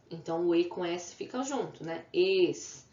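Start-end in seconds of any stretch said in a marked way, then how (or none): 2.1-2.8 Estela split into Es, te, la; syllable by syllable. Shown as a demonstration. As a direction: leave a clear gap between Es, te and la. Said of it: "Três vezes".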